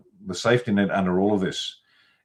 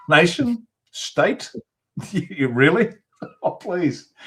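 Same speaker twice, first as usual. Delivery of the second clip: laughing through the words, much higher; high-pitched real laugh breaking into the question; incredulous laughing; 10 semitones higher, much slower than usual. Real, not acted. Scoffing at the idea of an unskilled population running a nation, laughing. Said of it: "I'm laughing, but I don't find it funny".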